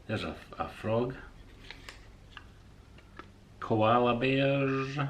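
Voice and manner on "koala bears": delighted. Real, not acted. Delighted at animal coasters.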